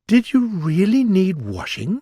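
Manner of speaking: lightly voiced curious girl; Alice voice. A narrator's reading. Alice questioning the Mock Turtle, lightly voiced girl.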